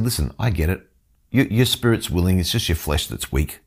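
lightly voiced compassion, reassuring a friend who has failed; Jesus. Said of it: "the compassionate eyes of Jesus".

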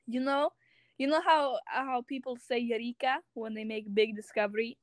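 put-on Russian accent, playfully emphatic. Shown as a demonstration. Telling a friend her word for discoveries, Russian accent. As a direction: keep up the mock Russian accent. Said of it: "I speak in the Russian accent".

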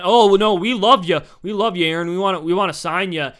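hammed-up gushing over the player; mock fake team niceness. Team bosses sucking up to their quarterback, mock sweet and loud. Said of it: "basically they were saying".

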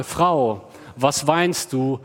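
polite and loving. Shown as a demonstration. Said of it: "als ein höfliches und liebevolles Interesse".

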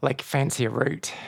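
put-on a clumsy, half-hearted Australian accent; bad Australian accent. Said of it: "my really bad Australian accent".

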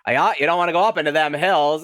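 put-on creepy old gas station attendant; slow ominous raspy drawl. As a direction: warn them off like a spooky local. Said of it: "and he's like".

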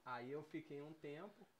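talking while chewing; speaking around a bite of food; mouth full. Real, not acted. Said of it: "boca cheia que aqui não tem".

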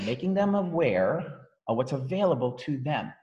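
slow drawn-out "Making them aware of what's available to them"; slowed demo. Shown as a demonstration. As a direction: spell it out slowly. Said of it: "I specifically slow down on certain words".

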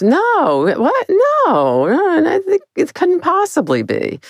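high, cracking cry of denial; shocked disbelief. Retold or imitated. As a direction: refuse to believe it, near tears. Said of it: "Bambi goes".

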